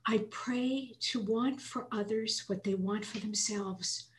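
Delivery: a hushed, heartfelt prayer with breathy whispered stretches; prayer read aloud. Real, not acted. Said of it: "this is what I wrote for selfish".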